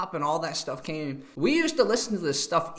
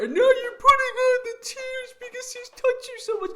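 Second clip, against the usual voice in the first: mock host call-out; 4 dB louder than usual. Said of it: "the host, called her out".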